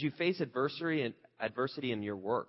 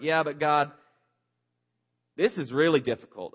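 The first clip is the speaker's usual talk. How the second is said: whiny Joshua; 3 semitones higher, 7 dB louder than usual. Retold or imitated. Joshua whining back at God.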